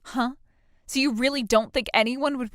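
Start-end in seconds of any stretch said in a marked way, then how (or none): none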